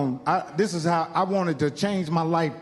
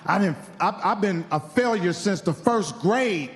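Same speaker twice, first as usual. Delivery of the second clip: mock crying; slower than usual. Comic telling how he cried driving home, slow mock sob. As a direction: drag out the sob story, half-hearted weepy. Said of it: "I'm crying".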